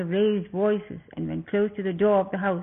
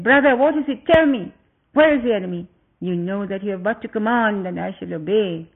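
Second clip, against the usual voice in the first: urgent; 5 dB louder than usual. Acted. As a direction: ask urgently, pitch raised. Brother kneels, urgent anxious question.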